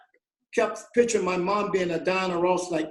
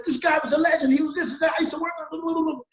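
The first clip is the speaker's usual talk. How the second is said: imitating an eager fan, pitched higher; gushing enthusiasm; 8 semitones higher, faster than usual. Paul raving to Bruno about the legend, higher and eager. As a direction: rave about a legend, rushing on. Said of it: "He said".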